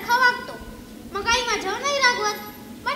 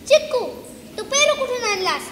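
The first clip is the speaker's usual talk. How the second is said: a hint of an angry mother, louder; mock scolding mother; 2 semitones higher, 4 dB louder than usual. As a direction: play mum catching him out. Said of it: "आई ओरडेल आणि म्हणेल". (आईची थोडी रागावलेली नक्कल)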